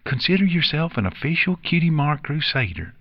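high, happy filly voice; happy announcement. A narrator's reading. Apple Bloom welcomes a new member, high happy announcement. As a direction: announce it proudly, pitched well up. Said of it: "Apple Bloom announced happily".

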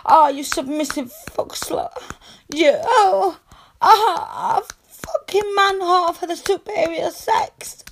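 high, breathy whispered taunt; ecstatic whisper. Acted.

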